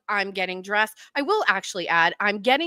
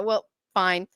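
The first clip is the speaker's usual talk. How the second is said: ordinary talk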